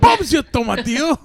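high, hammed-up British; jolly put-on British voice; mock British accent. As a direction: chirp it like a cartoon Brit.

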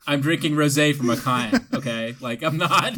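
tipsy, words slurring through numb lips. Real, not acted. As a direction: talk with numb, clumsy lips. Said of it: "tripped over my words 'cause my lips are numb".

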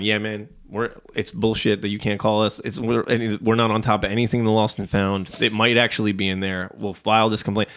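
understated, low confiding reassurance; sympathetic employee. Retold or imitated. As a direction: imitate a laid-back worker commiserating. Employee commiserating in retold talk.

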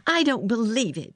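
high-pitched angry contradiction; mild shout. A narrator's reading. Girl disputes sick boy's lump, mildly shouted. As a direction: contradict sharply without much volume. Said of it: "Mary shouted".

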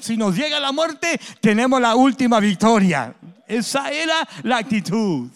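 loud, driving sermon delivery; full-force preaching. Acted. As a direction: preach it out to the congregation. (predicando a todo pulmón)

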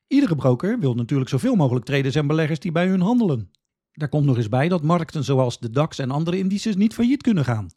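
usual speaking voice

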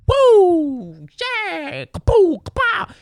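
very high, whooping flashy hype; mocking flashy basketball hype, high whoops; mock hype shouts. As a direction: whoop like a showboat crowd. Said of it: "because it wasn't".

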